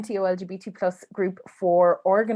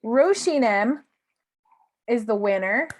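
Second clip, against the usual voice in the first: hyped giveaway announcement; 5 semitones higher, 3 dB louder than usual. Real, not acted. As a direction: build suspense, then cheer the winner. Host announces book winner.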